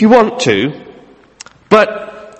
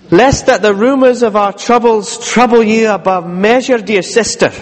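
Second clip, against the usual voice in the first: put-on formal old letter reading; 3 semitones higher than usual. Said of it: "this has got old English".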